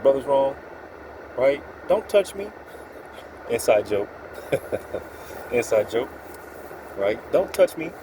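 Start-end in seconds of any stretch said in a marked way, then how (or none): 1.9-2.5 squeaky, high-pitched mock of someone saying "don't touch me". Mocking the people who wronged him in a high voice. Inside joke quote. 7.3-7.9 squeaky, high-pitched mock of someone saying "don't touch me". Mocking the people who wronged him in a high voice. Inside joke quote repeated.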